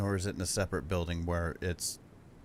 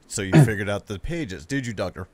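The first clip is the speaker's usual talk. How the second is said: louder, sly villain question; mock Anne line; 9 dB louder than usual. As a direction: suggest the NPC line with relish. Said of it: "You can go".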